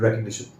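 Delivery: recognition as REK-ug-NI-shun; correct pronunciation. Shown as a demonstration. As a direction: say recognition with no "nize" sound, just "ni-shun". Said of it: "इसको आप ऐसे बोलिए".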